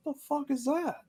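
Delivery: retold shock. Retold reaction to cat fart.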